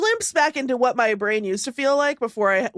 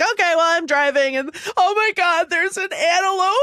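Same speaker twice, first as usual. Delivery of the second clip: bright, eager driving chatter; excited voice memo; 3 semitones higher than usual. Retold or imitated. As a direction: share the sighting with glee. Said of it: "they sound like this".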